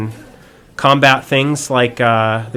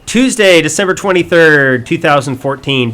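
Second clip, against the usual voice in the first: put-on higher, louder old-time radio announcer; 1940s announcer; 4 semitones higher, 5 dB louder than usual. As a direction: read it like a vintage newsreel voice. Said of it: "It turned into a nineteen forties announcer".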